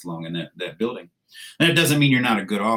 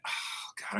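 weary sigh; 15 dB quieter than usual. Retold or imitated. Exhausted reaction to Brits.

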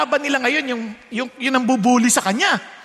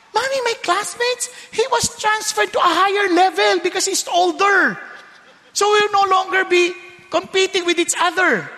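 put-on excited child; 7 semitones higher than usual. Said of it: "You know".

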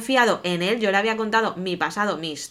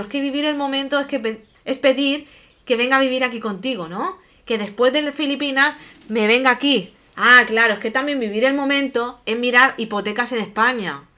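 sarcastic anger; 3 semitones higher than usual. Retold or imitated. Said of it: "alzo el tono y es que me cabreé".

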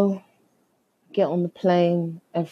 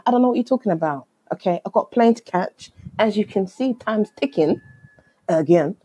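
higher-pitched retold insistence; insistent protest; 3 semitones higher, faster than usual. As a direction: argue your case to the agent. Retells arguing with airline agent.

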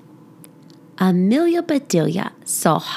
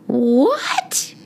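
mild surprised yell; 5 semitones higher than usual. Acted. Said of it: "yelled Amelia Bedelia".

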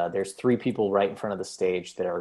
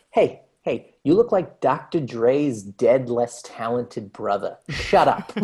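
heckler roast; 3 semitones higher, 5 dB louder, slower than usual. Retold or imitated. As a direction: bark it at the heckler with a showman's swagger. Tom roasting a heckler on stage.

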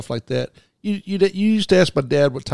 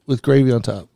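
slow, disbelieving list of sausages, mash, peas, gravy; drawn out in disbelief; incredulous listing; 2 semitones lower, slower than usual. Real, not acted. Host doubting the British dish, slow and incredulous. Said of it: "That's Yorkshire pudding?".

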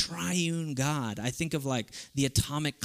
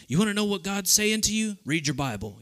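imitated pastor; 6 semitones higher than usual. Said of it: "he doesn't sound like that".

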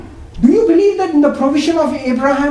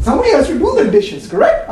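laughing; 6 semitones higher than usual. Real, not acted. Repeats Priya's objection laughing.

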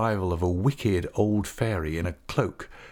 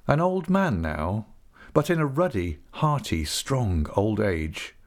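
plain reading voice

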